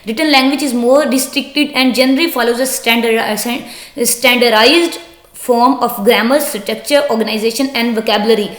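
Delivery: slow, deliberate reading aloud of an English text; slow textbook reading. Acted. Teacher reading the textbook sentence to students, slow and deliberate. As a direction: read it out word by word for the class.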